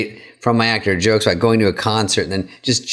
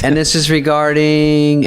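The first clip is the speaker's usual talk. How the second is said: snooty receptionist; 4 semitones higher, slower than usual. Retold or imitated. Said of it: "And she goes".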